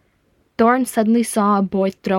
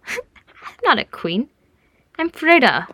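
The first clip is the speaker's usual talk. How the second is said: put-on high child's voice after a giggle; giggly little girl; 7 semitones higher, slower than usual. A narrator's reading. Little girl answering his majesty compliment, giggly. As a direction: correct him in a high, giggly small voice. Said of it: "She giggled".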